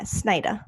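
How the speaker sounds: "Snyder" ending in "-ah", no R; Long Island Snyder. Shown as a demonstration. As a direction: say "Snyder" as "Sny-dah", Long Island style. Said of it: "Say your name in the Long Island way".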